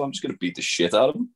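high, fast cocky boast; cocky heel. Retold or imitated. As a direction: brag like an arrogant heel. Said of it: "he was like".

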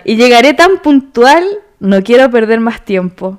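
leer la letra lento, sin cantar; recitado de letra. Shown as a demonstration. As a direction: recitar marcando cada verso. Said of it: "yo estoy recitando". (declamar una canción pausadamente)

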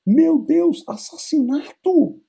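high, drawn-out crying wail; crying Hamlet. Acted. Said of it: "O Hamlet fala".

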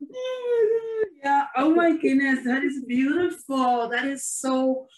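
high, teary laugh fading into soft sobbing words; laughing through tears. Real, not acted. Host wiping tears after the guest's quote, laughing through crying. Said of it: "I'm trying to wipe my tears here now".

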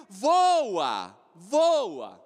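slow stretched call of time flying; drawn out exclamation. Acted. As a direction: stretch the word voa out. Tempo voando, pregador exclama. (voa arrastado e exclamado)

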